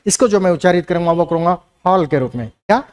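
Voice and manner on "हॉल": हॉल with a vowel between "aa" and "o". Shown as a demonstration. Teacher modelling the correct Hindi sound, हॉल midway between "aa" and "o". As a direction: say हॉल with an open, lightly rounded "aw". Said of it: "दोनों के बीच की ध्वनि".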